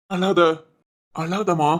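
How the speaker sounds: low, gentle consoling. Acted. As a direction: soothe someone who is crying, slowly. Consoling a crying friend. (ஆறுதலா, மென்மையா)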